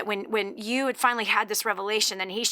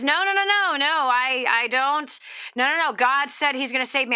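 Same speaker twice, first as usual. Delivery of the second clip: higher opening burst of protest, easing off; mock insistent protest; acted refusal; 4 semitones higher, 4 dB louder than usual. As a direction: play the stubborn man turning help away. Joke's man refusing rescue.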